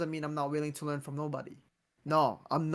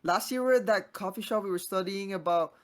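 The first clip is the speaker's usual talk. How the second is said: excited praise; 4 semitones higher than usual. Retold or imitated. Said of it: "people were like".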